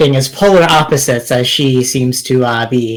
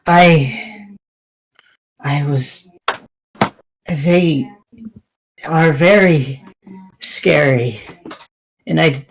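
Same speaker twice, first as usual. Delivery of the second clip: resigned confession. Acted. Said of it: "sighs and says".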